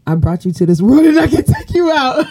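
high, laughing mock mom threat; hammed-up mother threatening her child; mock angry mom. Host playing a threatening mom to her guest, laughing. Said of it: "say things how parents say".

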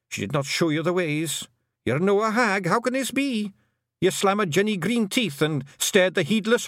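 high Scottish wee chief, amazed and pleading; Rob Anybody voice. A narrator's reading. Rob Anybody marveling at Tiffany, high Scottish astonishment. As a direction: marvel that the hag knows nothing.

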